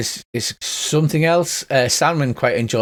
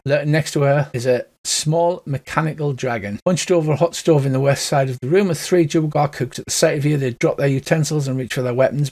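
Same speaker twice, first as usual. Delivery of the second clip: ordinary talk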